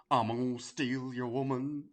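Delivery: slow, drawn-out mock wrestler threat; a hint of a leering Honky; Honky Tonk Man impression. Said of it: "I can't do a Honky impression".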